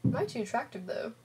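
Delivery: smug self-admiring question; vain question. Acted. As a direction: ask it like you know you're gorgeous. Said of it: "That Gage never does any work".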